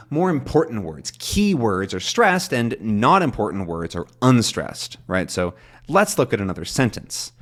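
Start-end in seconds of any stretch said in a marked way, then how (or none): 5.9-7.3 main stress on "let's" and "sentence"; usual sentence stress. Shown as a demonstration. Teacher showing how they'd stress it, usual stress. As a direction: lean on "let's" and "sentence", "look at another" lighter. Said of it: "That's how I'd probably stress this sentence".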